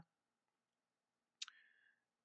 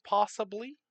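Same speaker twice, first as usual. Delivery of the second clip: a much higher, louder lift on possibly; teasing surprise; 10 semitones higher, 5 dB louder than usual. Real, not acted. Narrator hinting at a new continent, playful and surprised. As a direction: tease the discovery with a leap up.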